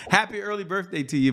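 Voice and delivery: birthday wish with a laugh running through it. Real, not acted. Host laughing as he wishes the guest happy birthday. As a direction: chuckle as you say "Happy early birthday".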